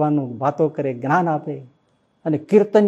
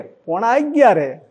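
put-on higher, louder, slow old devotee's answer; serene certainty; 7 semitones higher, 4 dB louder, slower than usual. Old devotee telling his friend the hour, serenely sure. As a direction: state the hour with calm certainty.

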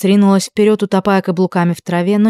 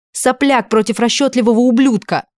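higher, spitting contempt; furious shout; 6 semitones higher than usual. A narrator's reading. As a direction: hammer both insults. Furious quarrel continues.

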